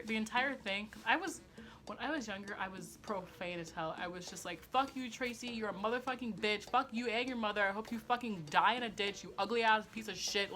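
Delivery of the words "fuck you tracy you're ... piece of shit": lightly raised, hammed-up cursing rant; a mild mock of a furious kid swearing; mock angry tirade. Thirteen-year-old cursing out her brother, mild mock rage. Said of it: "I was saying stuff like that".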